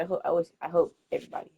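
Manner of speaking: stumbling over the words; tripping over words, restarting; stuttering. Real, not acted. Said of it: "stuttering hard as hell".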